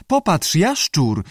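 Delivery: high, slow squawky creature; screechy lizard voice. A narrator's reading. Unseen lizard calls behind the keeper, screechy. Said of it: "z krzeczącym głosem".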